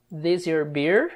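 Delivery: "This your beer?" said slowly with a rising end; slowed-down teaching repeat. Shown as a demonstration. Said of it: "Daí o Dom pergunta".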